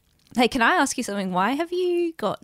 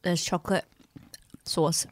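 mouth full; 4 dB quieter than usual. Real, not acted. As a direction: mouth full of chocolate sauce. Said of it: "I'm squishing the two raspberries".

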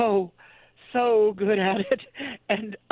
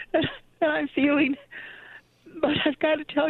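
holding back tears; 4 semitones higher than usual. Real, not acted. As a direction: voice catching on "feeling", pitch up. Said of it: "I'm trying not to cry".

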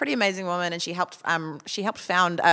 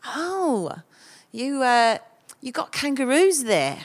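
imitating a clueless agency woman, voice pitched higher; lightly voiced naive agent, asking brightly; mock clueless agent; 6 semitones higher, slower than usual. Agency woman quizzing a Kiwi about kangaroos, higher and chirpy. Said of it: "she was like".

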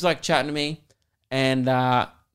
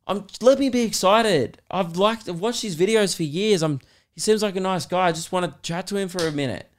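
retold exasperated pleading; 5 semitones higher than usual. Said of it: "'cause they started fighting".

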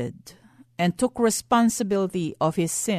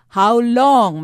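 preaching cry; 2 semitones higher, 7 dB louder than usual. Real, not acted. Preacher appealing to congregation.

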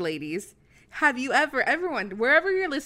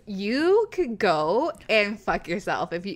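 put-on drunk Nudia voice; 2 semitones lower than usual. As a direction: lightly slur like you're tipsy. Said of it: "in my drunk Nudia voice".

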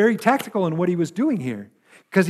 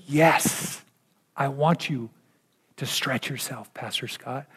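gently; 4 semitones lower, 6 dB quieter, slower than usual. Acted. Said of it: "But he says it gently".

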